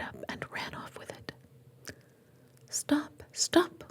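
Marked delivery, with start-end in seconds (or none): 2.7-3.8 urgent stage-whispered cry; mild whispered shout from a frog. A narrator's reading. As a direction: call out higher, still in a whisper. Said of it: "cried the frog".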